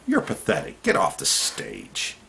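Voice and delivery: scornful retort. Shown as a demonstration. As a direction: sneer it at the politician. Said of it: "start talking like that to politicians".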